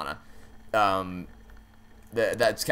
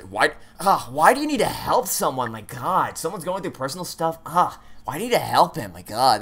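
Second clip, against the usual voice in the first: whiny, swooping mock complaint; hammed-up indignant jealous partner; mock exasperation; 3 semitones higher than usual. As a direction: moan it in overblown, petty outrage. Mocks a jealous reply option.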